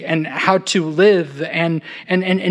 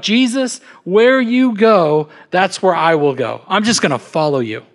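eager blurting. Acted. Keen follower pledging himself to Jesus, blurting it out. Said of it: "he just blurts it out".

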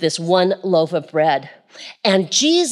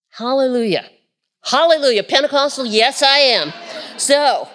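preaching shout; 5 semitones higher than usual. Real, not acted. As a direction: break out in Pentecostal praise. Preacher erupts in praise.

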